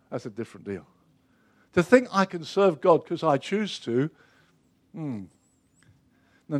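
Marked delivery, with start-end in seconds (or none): 0.1-0.9 repeated much softer, almost breathed; near whisper. Acted. Preacher echoes his point to the congregation, softly. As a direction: let the words fall to a hush.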